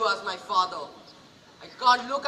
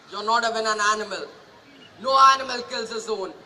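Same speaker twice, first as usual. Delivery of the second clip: fast, then a loud furious cry; 4 dB louder, faster than usual. Acted. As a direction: lash out at him in fury. Son furious at his father.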